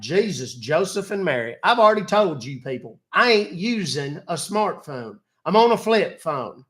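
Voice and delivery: put-on grumpy elderly Southern gentleman, exasperated; cranky old Southern man. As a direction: play a fed-up old country man. Old man persona scolding scammer.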